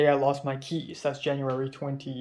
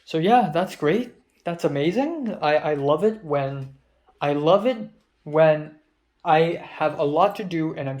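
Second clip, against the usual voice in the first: sarcastic; 4 dB louder than usual. Real, not acted. Venting about nobody responding to the film, sarcastic. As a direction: praise it with heavy sarcasm.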